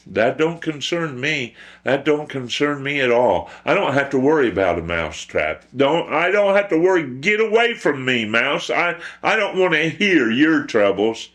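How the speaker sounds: high-pitched, irritated pig brush-off; dismissive pig. Acted. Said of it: "And the pig said to the mouse".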